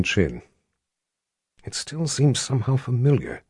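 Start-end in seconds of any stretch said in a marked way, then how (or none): 1.6-3.4 soft murmur to himself. Acted. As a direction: murmur it under your breath. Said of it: "he murmured to himself".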